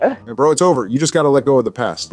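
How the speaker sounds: low-pitched, sobering comfort; consoling. Acted. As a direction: talk a friend down in a low voice. Consoling a heartbroken friend.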